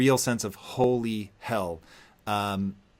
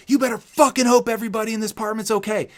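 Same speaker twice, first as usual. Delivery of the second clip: higher, louder, fast mock cop snarl; angry cop; 10 semitones higher, 4 dB louder, faster than usual. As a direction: snarl it like a cop pinning you down. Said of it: "And they're like".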